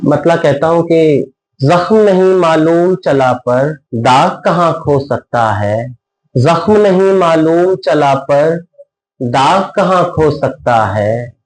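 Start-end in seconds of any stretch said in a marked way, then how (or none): 1.6-11.3 measured mushaira-style verse reading; ghazal recitation. Acted. Poet presents a ghazal to a listening audience, measured recitation. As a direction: recite each line in rhythmic, sustained phrases.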